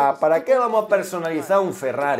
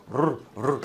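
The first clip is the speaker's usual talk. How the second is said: mock growl; 6 semitones lower, 3 dB quieter than usual. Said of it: "Ha hecho".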